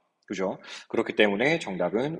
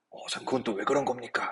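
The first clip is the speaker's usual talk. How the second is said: student asking; 6 dB quieter than usual. Pretend. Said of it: "라고 물어보신다면".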